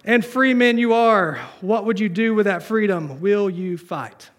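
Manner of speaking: mock-heroic address to the troops; William Wallace. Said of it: "he's talking to his countrymen".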